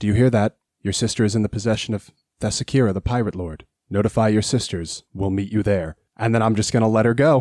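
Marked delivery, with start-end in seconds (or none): 0.0-6.0 lower in-character whisper. Leaning in to the captive harpy to tell her something: whispering. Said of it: "lean in to whisper to the harpy".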